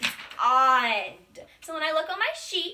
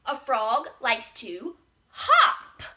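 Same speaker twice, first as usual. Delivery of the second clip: slow teaching voice; 4 dB louder, much slower than usual. Shown as a demonstration. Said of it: "Hop ends in op".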